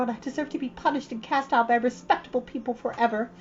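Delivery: put-on high, dramatic pleading girl; beseeching. Anne on her knees begging Missus Lynde's forgiveness, beseeching. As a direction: throw yourself on her mercy, theatrically.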